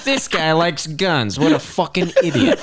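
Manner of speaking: Michael Moore. Acted. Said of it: "That's my best Michael Moore impression".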